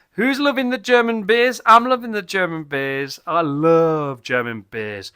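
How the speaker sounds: loud, hyped-up beer cheer; excited enthusiasm. Real, not acted. Beer reviewer cheering for German beers to viewers, excited.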